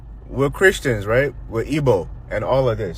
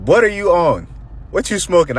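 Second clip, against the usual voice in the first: higher, louder incredulous questioning; mock-incredulous outburst, raised pitch; retold disbelief; 6 semitones higher, 4 dB louder than usual. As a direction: act out baffled disbelief at a wild claim. Acted disbelief at doctor's claim.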